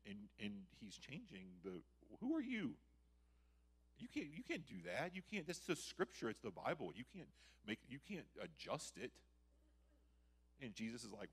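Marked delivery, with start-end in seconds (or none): 2.2-9.1 high-pitched mock outrage, easing off; indignant challenge. Scandalized listeners challenge Jesus for changing scripture, acted indignantly.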